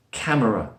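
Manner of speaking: "Camera" with the middle schwa kept; mispronounced camera. Shown as a demonstration. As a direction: sound out "Camera" as cam-uh-ra. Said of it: "often mispronounced as camera".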